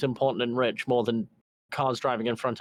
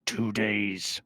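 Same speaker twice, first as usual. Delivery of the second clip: gruff boss voice; 2 semitones lower, slower than usual. Acted. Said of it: "The very gruff voice of your boss".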